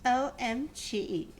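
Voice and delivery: slow, spelled-out disbelief; mock disbelief. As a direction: savour each letter. Mars laughing at requisition.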